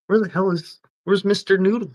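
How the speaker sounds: yelling out for a missing worker; boss calling out. Retold or imitated. Boss calling across the job site for Mister Noodle. Voicing boss asking for him.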